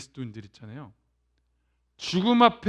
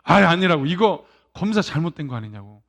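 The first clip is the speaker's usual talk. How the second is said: denial; 3 semitones lower, 3 dB louder than usual. Retold or imitated. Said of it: "막 부인한다는 거".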